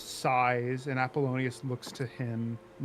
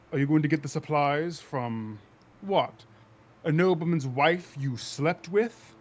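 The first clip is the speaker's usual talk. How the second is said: lightly acted sneering accusation, pushed louder; a touch of scandalous needling; taunting insult; 4 dB louder than usual. Officer needling a politician about his affairs, lightly taunting.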